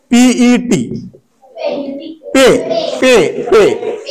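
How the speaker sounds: drawn out, letter by letter, पीईटी then पे; slow spelled-out demo. Shown as a demonstration. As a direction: stretch पे slowly for the class. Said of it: "जसं की".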